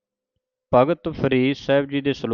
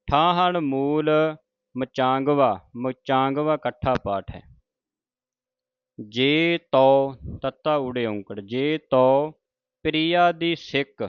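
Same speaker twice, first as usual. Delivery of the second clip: slow recitation. Acted. Reciting Gurbani.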